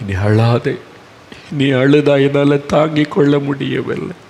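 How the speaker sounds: a touch of tender reassurance; gentle comfort. Acted. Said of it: "இயேசு சொன்னார்".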